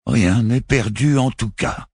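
insist, trying to convince himself; forceful assurance. A narrator's reading. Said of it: "affirma Barofil ... avec une force de persuasion". (Barofil affirme avec force, voix plus aiguë)

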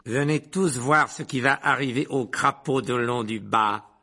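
slow, relishing announcement; gleeful Snape. Acted. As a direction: savour the coming punishment. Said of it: "les yeux étincelants". (jubilation cruelle)

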